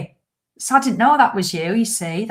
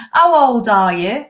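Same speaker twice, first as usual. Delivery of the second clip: dental nurse asking; 3 semitones higher, 6 dB louder, slower than usual. Retold or imitated. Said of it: "Nearly never came".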